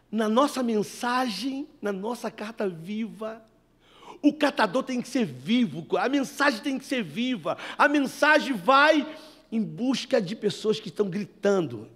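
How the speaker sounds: slow, emphatic pulpit delivery; fervent preaching. Acted. Pastor preaching to the congregation, slow and emphatic. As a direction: lean into each phrase like a sermon peak.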